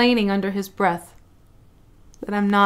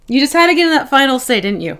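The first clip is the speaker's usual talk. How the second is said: teasing the cat; 5 semitones higher, 8 dB louder than usual. Real, not acted. Teasing the cat after meowing.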